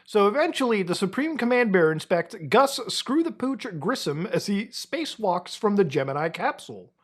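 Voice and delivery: grand, hammed-up announcer read; mock-heroic narration. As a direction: proclaim the silly legend as epic history. Reads bear legend in announcer style.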